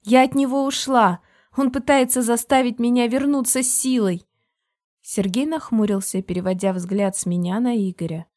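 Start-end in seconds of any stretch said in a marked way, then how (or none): 0.0-4.2 loud, high protest; couple bickering. A narrator's reading. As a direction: shout back at the husband.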